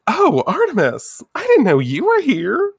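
high, swooping mock surprise; exaggerated high-pitched "oh" of discovery; acted surprise. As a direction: act caught off guard by someone's presence. Acting surprise at finding Artemis.

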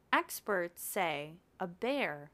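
slow, grave storyteller voice; slow ominous reading. A narrator's reading. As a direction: read it slowly for suspense. Reading a grim mystery quote.

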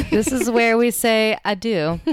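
mock French accent on adieu. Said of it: "in my best French accent".

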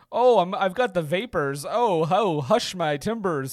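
hammy amateur Southern belle, drawn out at the end; Southern Belle attempt. Co-host trying out the vapors line in a mock Southern belle accent. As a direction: have a clumsy go at a Southern belle. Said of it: "Let me try".

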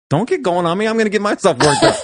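high laughing aside, pitched well up; half-joking, voice climbing with a laugh; laughing self-quote. Retold or imitated. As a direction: laugh at yourself getting worked up. Counselor quoting himself to client.

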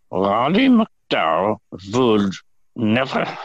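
put-on slow, halting try at a Russian accent that slides toward German; attempted Russian accent. Quoting the Russian producer in a faltering Russian accent. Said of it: "I can't do a Russian accent".

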